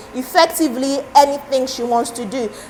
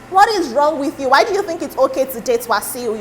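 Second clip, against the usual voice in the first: imitated disbelief; 2 semitones higher than usual. People questioning her choice of partner, mock disbelief. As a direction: voice people's mild outrage, pitched up at the start. Voicing scandalised public reaction.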